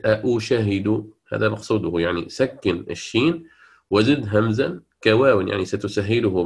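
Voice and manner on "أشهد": slow أشهد with voweled shin; not this reading. Shown as a demonstration. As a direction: stretch أشهد as the reading to avoid. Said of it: "ليست".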